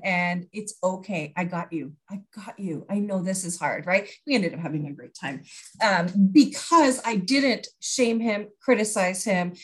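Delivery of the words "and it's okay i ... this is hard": calm him down gently, fading softer; soothing reassurance. Retold or imitated. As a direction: parent quietly reassuring an overwhelmed child. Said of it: "I'm just like".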